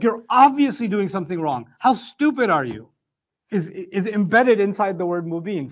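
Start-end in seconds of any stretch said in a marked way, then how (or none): 0.0-2.9 louder, scolding insult in demonstration. Acted. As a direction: scold them for missing the obvious. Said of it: "adds insult to injury".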